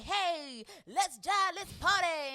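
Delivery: loud, high hype-man call; party hype voice. Retold or imitated. Imitating the first soundtrack's party mood, loud and high. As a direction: pump up the crowd like the old soundtrack. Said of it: "you know, it was like".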